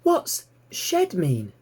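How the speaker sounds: high and drawn out, puzzled little pig; curious piglet, slow. Acted. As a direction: stretch the question out slowly, very high. Piglet Babe asks.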